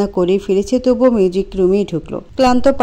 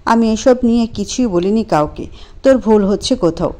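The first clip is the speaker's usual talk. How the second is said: calm. Acted. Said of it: "শান্ত সুরেই বলল".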